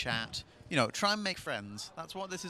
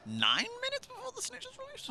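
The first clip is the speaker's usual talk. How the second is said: unsure maths; 3 dB quieter than usual. Real, not acted. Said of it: "here's my terrible maths now".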